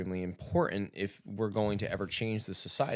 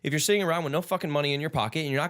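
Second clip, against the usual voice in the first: retold angry rebuke; 5 semitones higher, faster than usual. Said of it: "I was like".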